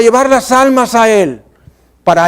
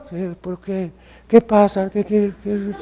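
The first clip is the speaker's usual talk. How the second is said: hushed, much softer calm answers; very soft reply; 9 dB quieter than usual. Shown as a demonstration. Preacher showing a soft answer to a shouter, very quiet. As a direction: answer the yeller almost in a whisper. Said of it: "bajar la voz".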